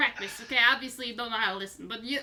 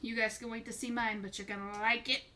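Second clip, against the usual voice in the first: carnival barker. Acted. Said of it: "Why do you sound like a carnival barker".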